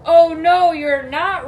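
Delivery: loud, forceful refusal; booming storybook troll; troll's roar. Acted. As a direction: roar it out, hitting the first words hardest. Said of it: "roared the troll".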